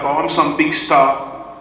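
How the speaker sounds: slow, mocking self-important tone; mock vanity. Speaker mocking his own ego before the crowd, slow and self-important. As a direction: play the puffed-up celebrity, lightly. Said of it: "massage my own ego like".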